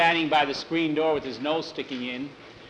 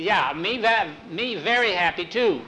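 put-on lightly copying the cook's Chinese accent; imitated pidgin accent; 4 semitones higher, 3 dB louder than usual. Jackie answering the cook in borrowed mock Chinese accent. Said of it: "he's gotten me saying valley".

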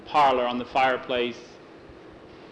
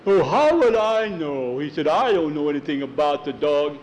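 cornered man protesting innocence; defensive protest; 3 dB louder than usual. Acted. Norbert, cornered, protests his innocence.

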